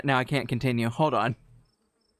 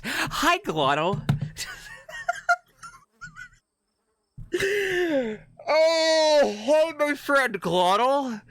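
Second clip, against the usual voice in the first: much higher, cutesy put-on voice to greet a friend; squeaky greeting voice; 12 semitones higher, slower than usual. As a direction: squeak out a cheerful hello. Greeting a subscriber in chat.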